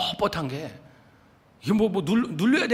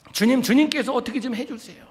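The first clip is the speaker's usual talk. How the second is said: pleading prayer; 8 semitones higher, 5 dB louder than usual. Shown as a demonstration. Urging wives to pray.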